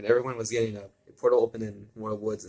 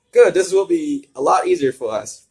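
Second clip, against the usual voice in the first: loud, high gleeful villain gloat; 7 semitones higher, 12 dB louder than usual. Acted. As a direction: gloat over the unarmed kids.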